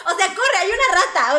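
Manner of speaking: loud, laughing through words. Real, not acted. Cracking up at her friend's joke, loud laughter. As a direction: talk while cracking up.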